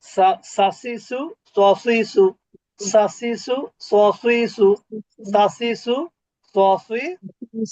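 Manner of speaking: সা সি সু said crisp, like a whistle; Arabic sin drill. Shown as a demonstration. Teacher chanting the sin vowels for students to repeat. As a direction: hiss the সা সি সু crisply. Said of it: "আর এটা হলো স".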